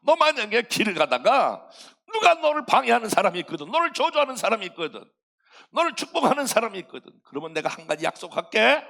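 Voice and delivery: 크고 힘찬 하나님의 약속; 아브라함에게 단단히 다짐하는 하나님; God promising. Acted. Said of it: "하나님이 뭐라고 했냐면". (하나님이 아브라함에게 크게 약속하며)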